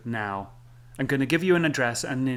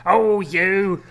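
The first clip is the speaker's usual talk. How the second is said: higher, louder sing-song mock; mocking sing-song woman; 5 semitones higher, 8 dB louder than usual. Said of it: "You even sung it like that".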